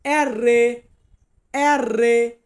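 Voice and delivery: "এররে" as ER-reh with a held double r; Italian letter R. Shown as a demonstration. Teacher modelling Italian R for beginners, "এররে" with doubled r. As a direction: draw out the r in "এররে". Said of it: "আরকে আমরা Italian বর্ণমালাতে বলবো".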